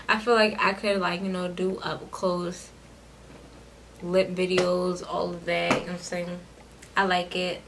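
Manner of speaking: talking around new dental appliance; slightly careful mouth closure; wearing snap-on veneers. Real, not acted. Seen 3: Bright uniform dental arch shown while smiling; she calls it a retainer.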